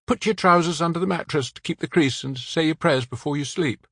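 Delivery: remembering the nuns' rules; lightly voiced man with local French accent, wistful. A narrator's reading.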